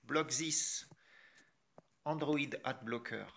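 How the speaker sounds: English words in a French accent. Real, not acted. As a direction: pronounce the English name like a French speaker. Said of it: "Avec mon accent français".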